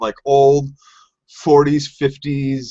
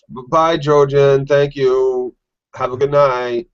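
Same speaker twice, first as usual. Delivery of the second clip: breezy send-off, slow at first; a playful, dismissive goodbye; mock farewell; 2 semitones higher, slower than usual. Glad to see sick Jojen gone, mock-polite farewell.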